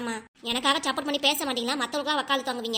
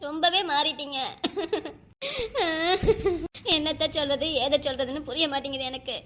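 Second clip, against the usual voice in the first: tearful lament with sobs between phrases; crying while talking. Acted. Wife telling husband he has changed, crying. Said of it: "இப்ப என்னாச்சு உனக்கு இப்படிலாம் அழுதுட்டு பேசிட்டு இருக்கிறதுக்கு?".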